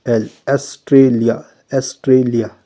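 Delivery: Australia slow, weight on the L sound; stress on L. Shown as a demonstration. Teacher marking the L in Australia, slow stress. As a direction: press the L of Australia, slowly. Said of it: "Then it come on the word L".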